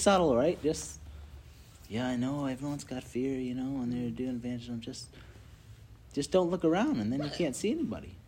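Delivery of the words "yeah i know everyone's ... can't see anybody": whiny fear voice. Retold or imitated. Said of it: "that voice that I was saying".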